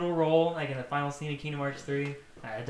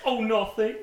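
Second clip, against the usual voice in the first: high, louder fake-innocent Goofy; 8 semitones higher, 7 dB louder than usual. Goofy hiding the sack from Sora, high fake innocence. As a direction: play dumb as Goofy.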